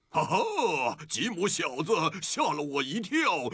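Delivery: pirate voice. Acted. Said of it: "像海盗一样说话".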